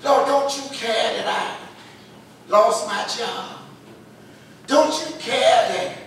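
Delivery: building, rising desperate plea; pleading prayer. Retold or imitated. Believer pleading with the Lord about troubles. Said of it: "Have you been there before".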